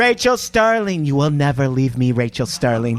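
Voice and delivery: a hint of a serial killer; creepy stalker voice. Creepy boyfriend impression, serial killer.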